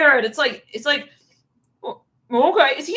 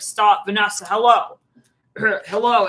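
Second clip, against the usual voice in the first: mock exasperated; 6 dB louder than usual. Scolding partner Vanessa.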